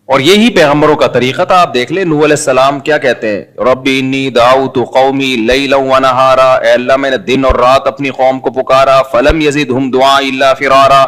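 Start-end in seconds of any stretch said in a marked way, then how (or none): 3.6-11.1 slow, measured scripture recitation; Quran recitation. Acted. Preacher quoting Noah's plea to the congregation, slow recitation. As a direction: recite the verse, drawing out the long vowels.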